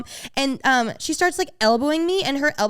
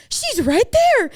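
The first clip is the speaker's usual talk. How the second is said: quoting a friend; 11 semitones higher, 6 dB louder, slower than usual. Retold or imitated. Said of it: "And then I hear".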